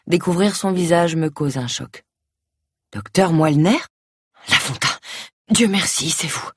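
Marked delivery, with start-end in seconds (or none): 2.9-6.5 feeble patient struggling to get words out; weak, barely articulate. A narrator's reading. Sick doctor relieved to recognize his colleague, weak and barely articulate. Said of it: "Sa voix est faible, à peine articulée".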